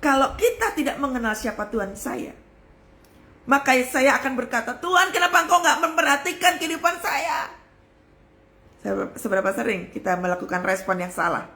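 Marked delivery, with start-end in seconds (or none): 4.8-7.5 high, pleading protest; mock an aggrieved cry to God; acted complaint. Believer who doesn't know God complains, high-pitched protest.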